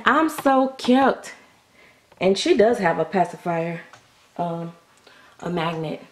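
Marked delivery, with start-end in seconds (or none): 0.0-1.3 put-on high, slow little girl voice; slow squeaky doll voice; cutesy baby voice. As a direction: speak for the doll, stretching it out sweetly.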